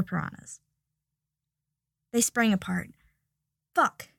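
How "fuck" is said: sudden high yelp; startled yelp of surprise. A narrator's reading. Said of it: "yelped Harry".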